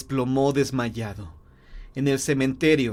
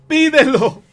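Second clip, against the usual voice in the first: high, forceful command; violent shout; 13 semitones higher, 10 dB louder than usual. Acted. Wife orders husband to make the wish, violently. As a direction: scream the order at him. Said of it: "gritó con violencia la mujer".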